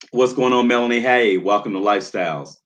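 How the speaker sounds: high, loud, bright call-out to a new arrival; light up and call her name out loud; excited greeting. Real, not acted. Host greets a viewer in chat.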